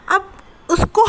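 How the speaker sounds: laughing through the words; chuckling while telling it. Real, not acted. Vlogger laughs as she tells viewers about the blow dryer, laughing.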